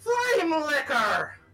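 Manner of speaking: high, slow, loud scream.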